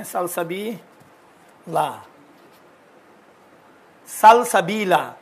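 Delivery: سلسبیلا drawn out very slowly; slow spelled reading. Shown as a demonstration. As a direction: read سلسبیلا slowly as written for the class. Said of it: "لکھا ہوا ہے". (سلسبیلا کو بہت آہستہ لکھے ہوئے کی طرح پڑھنا)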